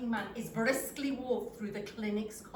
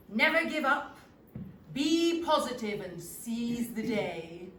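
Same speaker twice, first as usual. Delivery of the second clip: loud, slowing motivational slogans; enthusiastic encouragement; 6 dB louder than usual. Acted. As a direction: preach positivity with gusto. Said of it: "enthusiastically asks me".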